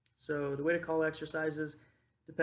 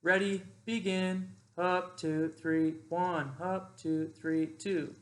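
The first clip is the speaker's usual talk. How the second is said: counting cadence; 3 semitones higher, 4 dB louder, much slower than usual. Shown as a demonstration. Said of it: "whoever's calling the exercise".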